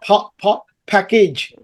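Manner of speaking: two puffed "pa"s, then "package"; P drilled alone, then in "package"; aspirated P in "package". Shown as a demonstration. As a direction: puff the P into "package". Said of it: "বাতাস বের হচ্ছে".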